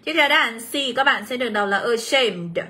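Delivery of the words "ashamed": "ashamed" stressed on SHAMED; short schwa opening "ashamed", stress on the A sound after; stress on second syllable. Shown as a demonstration. Teacher reading option C, "ashamed" stressed on its second syllable. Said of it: "các bạn cũng sẽ nhấn vào âm đằng".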